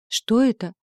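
dazed question. Acted. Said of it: "тупо спросила".

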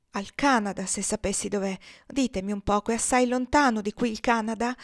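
a hint of an innocent, hopeful question; runaway mother asking how far Canada is, naive; trusting and naive. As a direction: ask it trustingly, like a child. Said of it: "sguardo fiducioso e ingenuo".

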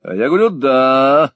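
a friend insisting on his own way; firm insistence. A narrator's reading. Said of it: "заявил друг".

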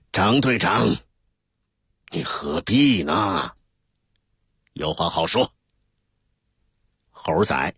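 smooth it over gently; calmer, placating. A narrator's reading. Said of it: "缓了一口气". (缓和劝解的语气)

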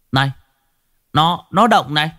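put-on a kid going up in pitch as it moves; boy excited. A narrator's reading. Cậu bé hoảng hốt chỉ khối thịt. (giọng cậu bé hốt hoảng, cao dần)

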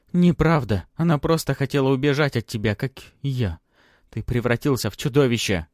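high, loud defiant reply; loud defiance. Acted. Daughter defies her father.

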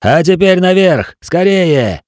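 high, loud urgent cry; shouting. A narrator's reading. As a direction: shout up to hurry him. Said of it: "прокричал Тилю".

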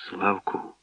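voiced near-whisper. A narrator's reading. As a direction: call softly to someone close by. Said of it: "прошепотіла".

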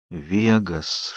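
soft, hushed aside; whispered promise. A narrator's reading. Edward softly promising Bella Vegas instead, hushed. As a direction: murmur it low so only she hears. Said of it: "шёпотом пообещал мне Эдвард".

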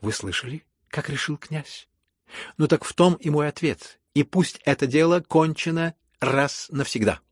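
loud, solemn decree; imperious, solemn. A narrator's reading. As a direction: pronounce it with authority. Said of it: "властно и как бы торжественно".

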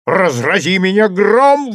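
громко и выше, с досадой; герцог бранится в сердцах; ругательство. A narrator's reading. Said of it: "выругался герцог". (сердито выругаться)

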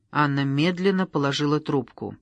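plain reading voice

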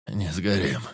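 moaned. A narrator's reading. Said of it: "простонал лесник".

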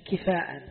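كفاء as kifa'an, long a before hamza; rare variant reading. Shown as a demonstration. Teacher quotes a rare reading, كفاء as kifa'an. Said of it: "وفي الشواذ قراءة سليمان بن علي".

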